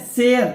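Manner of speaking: शेयर said loudly with an ए gliding into an आ; air sound demo. Shown as a demonstration. Teacher drilling शेयर for the class. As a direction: stretch the glide in शेयर. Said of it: "आ का उच्चारण लेना पड़ रहा है".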